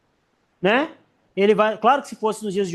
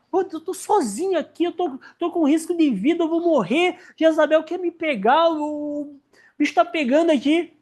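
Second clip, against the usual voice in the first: higher, mock frightened complaint; panicky Elijah; 5 semitones higher than usual. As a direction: fret like a cornered prophet. (Elias na caverna reclamando, assustado)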